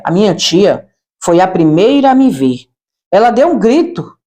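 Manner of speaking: normal talking voice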